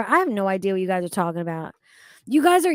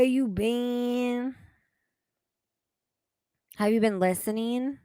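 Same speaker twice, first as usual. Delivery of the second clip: lightly put-on game phone voice, stretched endings; mild mock caller, drawn-out last words; Dream Phone quote. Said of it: "That's from Dream Phone, by the way".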